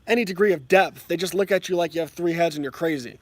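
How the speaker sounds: usual speaking voice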